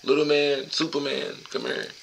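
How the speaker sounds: put-on a dad calling his boy over; proud dad calling his son; calling the kids.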